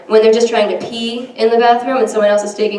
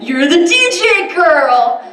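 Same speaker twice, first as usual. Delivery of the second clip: excited fan; 7 semitones higher, 4 dB louder, much slower than usual. Retold or imitated. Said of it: "you're like".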